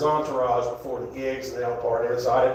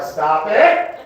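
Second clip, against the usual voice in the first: parrot squawk; 5 semitones higher, 7 dB louder than usual. Retold or imitated. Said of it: "he's like".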